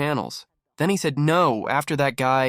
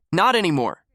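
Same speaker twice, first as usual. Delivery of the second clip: higher, cocky mock retort; mock tough reply; 6 semitones higher, 3 dB louder than usual. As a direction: shut him down with a sneer. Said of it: "the guy was like".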